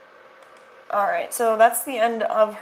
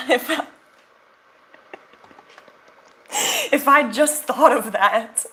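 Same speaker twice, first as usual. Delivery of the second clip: sarcastic; 3 semitones higher, 3 dB louder than usual. Retold or imitated. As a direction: sneer it out with fake regret. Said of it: "Hashtag sarcasm".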